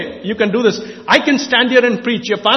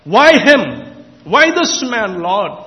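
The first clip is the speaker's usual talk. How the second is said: retold prayer; much slower than usual. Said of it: "I cried out to God and said".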